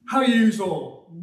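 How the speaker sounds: a light Scouse greeting, drawn out; Liverpudlian accent. Retold or imitated. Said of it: "In Liverpudlian, they say yous".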